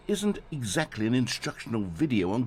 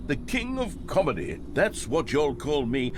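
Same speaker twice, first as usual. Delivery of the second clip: sarcastic; 5 semitones higher, 4 dB louder than usual. Acted. Mock amused at his own joke.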